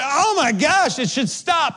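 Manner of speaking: hammed-up high-pitched dismay; retold panic. Preacher reliving the unstoppable bidet, mock panic. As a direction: exclaim as if the spray won't quit.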